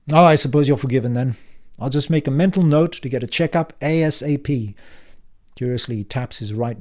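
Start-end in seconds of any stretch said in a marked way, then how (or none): 0.1-4.7 put-on louder, higher, impatient old man; brusque uncle Frank. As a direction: bark it like a testy uncle back from the dead. Frank's sarcasm.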